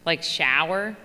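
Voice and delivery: shower in a Philly accent, said "shower" the Philly way. Shown as a demonstration. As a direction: say "shower" with a broad Philly vowel. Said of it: "the things I say with a Philly accent".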